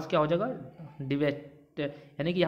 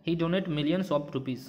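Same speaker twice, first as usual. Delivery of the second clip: slow dictation; much slower than usual. Shown as a demonstration. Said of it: "example sentence".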